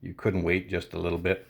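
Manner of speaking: low, muttered thought to himself; inner grumble. Retold or imitated. Thinking it silently about the impatient lady, muttered low. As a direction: grumble it under your breath. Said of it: "in my head, I'm like".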